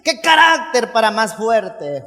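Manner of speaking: slow, drawn-out exclamation; hammed-up amazement, leaning on CARÁCTER; mock awe. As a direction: exaggerate how impressed you are.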